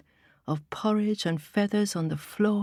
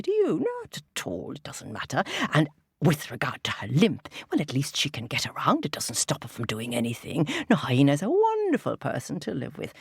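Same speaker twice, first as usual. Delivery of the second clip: lowered voice of a proud, pleased lion king; 2 semitones lower than usual. Acted. Lion boasting to Vulture about his housemates in a lowered voice. Lion's long speech praising friends.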